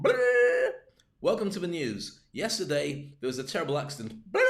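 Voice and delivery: silly newsreader. Shown as a demonstration. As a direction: ham up the news with a goofy trill. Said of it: "you don't wanna be going".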